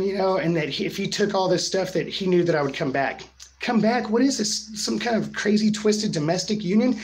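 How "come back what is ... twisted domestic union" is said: higher pitched disbelieving echo; incredulous scoff. Real, not acted. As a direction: repeat it back like it's absurd. Mocking his excuse in disbelief.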